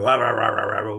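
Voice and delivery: run-on "rah-rah" blather; mock arguing noise. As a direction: imitate pointless inner arguing. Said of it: "You can sit there and argue".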